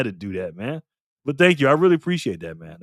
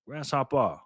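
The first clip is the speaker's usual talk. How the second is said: softer put-on Asian accent; mock Asian accent; 7 dB quieter than usual. Streamer repeating a viewer's nickname to himself, mock Asian accent. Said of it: "say it in an, uh, Asian accent".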